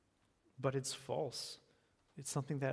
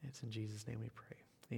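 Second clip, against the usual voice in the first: whispered close; 2 semitones lower, 8 dB quieter than usual. Real, not acted. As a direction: whisper the final line of the prayer. End of prayer, whispered close.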